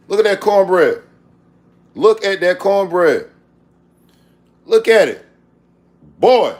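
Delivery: loud, thrilled exclaiming; bursting with pride over the food; loud delighted shouts; excited. Real, not acted.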